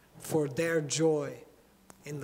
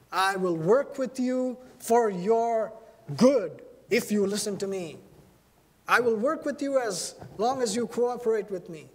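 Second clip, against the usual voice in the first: conditional bossy apostle; 4 semitones higher than usual. Retold or imitated. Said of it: "he could have said".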